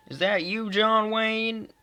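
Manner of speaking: high-pitched mocking question; quoted movie line. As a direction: call it out high like a film quote. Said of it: "I'm, like, quoting things from the movie".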